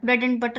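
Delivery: weak "and", its d left out; no d at the end of "and"; dropped d sound. Shown as a demonstration. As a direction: say "and" as "an" in "bread and butter". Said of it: "अब डी sound जो है वो बिल्कुल क्या हो जाती है".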